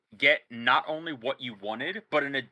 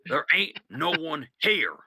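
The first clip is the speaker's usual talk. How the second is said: slow, a touch louder, firm; firm insistence; 3 semitones higher, 4 dB louder, slower than usual. Acted. Boss telling sniper firmly nobody is here. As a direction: gaslight him flatly and firmly. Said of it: "He goes".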